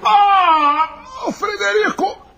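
high panicked screams and wails; screaming in terror. Acted. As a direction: shriek like you're under fire. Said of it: "Continua a matéria aí".

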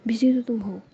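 usual speaking voice

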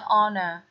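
honor as "on-er", no H at all; silent H. Shown as a demonstration. Teacher correcting the mistake for students, honor with silent H. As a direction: open honor directly on the vowel. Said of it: "Chứ không phải là".

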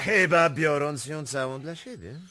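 loud, high cutting reply; sharp loud retort. Acted. Prince retorting to the accuser, loud and cutting. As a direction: throw it back at him hard.

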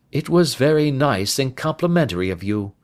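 courteous, composed reply; a hint of the cool sleuth; polite Holmes. Narrator voices Holmes replying.

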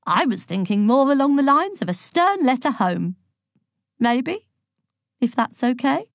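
meek head deferring to a bully; timid headmaster. A narrator's reading. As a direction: timidly float a milder idea. Timid head suggests a milder punishment.

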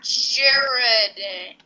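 "Jarate" drawn out, ending in "day"; demonstrated pronunciation. Shown as a demonstration. Friend answers how to pronounce it, "Jarate" drawn out. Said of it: "How do you pronounce it?".

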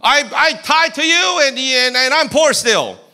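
high, loud whiny self-pity. Retold or imitated. Self-pitying believer complaining to God, loud whining. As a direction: whine to God like a victim. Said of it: "self-pity party".

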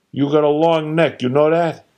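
gruff father voice. Retold or imitated. Father needling his son about his neck. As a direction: play the needling dad.

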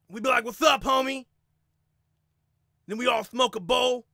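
Diaz brothers impression. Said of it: "How do the Diaz brothers feel".

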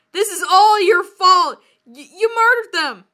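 indignant story-character outburst; mock accusation. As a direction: accuse them in a hammed-up outburst. Acted accusation in read-aloud story.

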